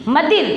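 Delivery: मदिर with no n before द; wrong reading, nasal dropped. Shown as a demonstration. Teacher shows pupils the mistake, मदिर without its n. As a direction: drop the nasal entirely, say मदिर. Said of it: "मदिर नहीं पढ़ना है".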